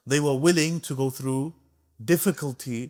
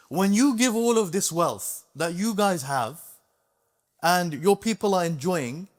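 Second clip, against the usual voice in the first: bold rebuke; 3 semitones higher than usual. Retold or imitated. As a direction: speak up boldly to the sultan. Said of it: "who have the courage to talk like this".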